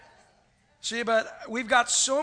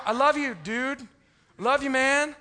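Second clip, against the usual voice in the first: louder, clipped guy-to-guy bravado; macho bro; 4 semitones higher, 5 dB louder than usual. Retold or imitated. Pastor mimicking men telling buddies, in a gruff bro voice. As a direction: tough it out like a bro. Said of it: "we gotta do a little grunt".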